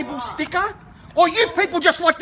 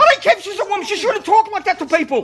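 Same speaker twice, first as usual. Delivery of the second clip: raised pitch, heated and insistent; angry retort; 6 semitones higher than usual. Real, not acted. Woman answering the man who says calm down, angry. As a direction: argue back in real indignation.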